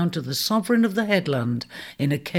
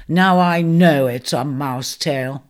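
louder, incredulous centaur, slowing on the last words; booming disbelief at a tall tale; amused doubting centaur; 2 semitones lower, 5 dB louder than usual. Acted. Centaur laughing off the news.

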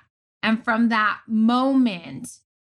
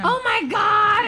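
high, drawn-out imitation wail; mock crying; 13 semitones higher, 3 dB louder, slower than usual. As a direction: wail it like someone bursting into tears. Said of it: "She full blown starts crying".

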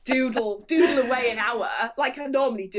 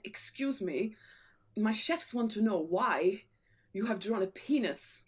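put-on Egyptian accent; 4 semitones lower, 3 dB quieter than usual. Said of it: "I think he's Egyptian".

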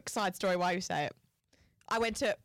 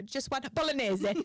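put-on Italian "bolognese" with a laugh; amused fake Italian ordering; lightly hammed-up Italian accent; mock Italian accent; 3 semitones higher than usual. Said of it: "start speaking Italian".

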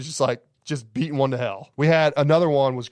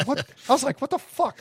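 shocked disbelief; 12 semitones higher than usual. Retold or imitated.

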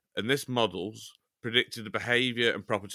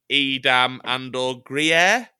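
mock dramatic; 7 dB louder, much slower than usual. Dramatic cheese robbery retelling.

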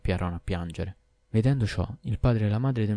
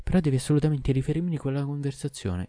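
higher, lightly voiced obstinate wife; stubborn wife; 7 semitones higher than usual. A narrator's reading. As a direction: refuse to back down. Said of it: "si intersardì la donna". (moglie testarda, voce più acuta)

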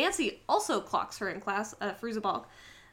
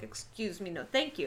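prim polite refusal; 3 semitones lower, 5 dB quieter than usual. Retold or imitated. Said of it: "I'm gonna be like".

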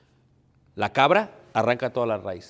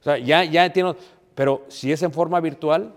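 forceful retort; 4 semitones higher, 7 dB louder than usual. Real, not acted. Preacher mocks then presses point.

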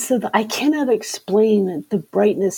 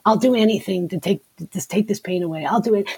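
rushed bargaining plea; faster than usual. Retold or imitated.

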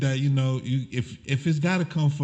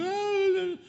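high offended "Oh"; mock sensitive gasp; 3 dB quieter than usual. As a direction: play the touchy offended gasp. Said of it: "They be like".

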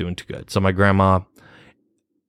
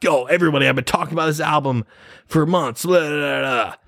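higher-pitched mock social post; excited post read-out, tossed off; mock hype announcement; 7 semitones higher than usual. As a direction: play at hyping up your followers. Acting out planned hype post.

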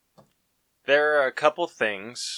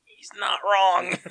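whispered aside, higher; 8 semitones higher than usual. Retold or imitated. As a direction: whisper it like a secret. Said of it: "and I'm like".

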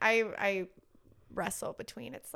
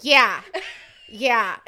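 loud, laughing emphatic yeah; laughing yes; 13 dB louder than usual. Retold or imitated. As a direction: agree with a giggle. Toddler answering with laughter.

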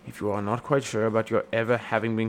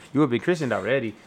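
mock Mexican accent. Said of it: "you started to sound like a racist stereotype of a Mexican person".

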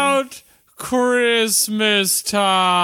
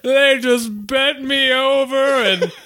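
laughing. Real, not acted. Laughing through the joke.

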